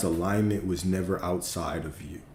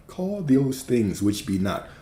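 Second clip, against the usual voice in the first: slow, solemn King James reading; a touch of mock biblical cadence; archaic scripture reading; 3 semitones higher, slower than usual. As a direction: intone it like old scripture. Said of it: "They always talk funny".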